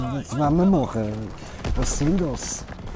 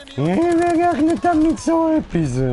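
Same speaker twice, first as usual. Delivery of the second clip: much higher squeaky whine. Real, not acted. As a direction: squeal it out high. High-pitched outburst.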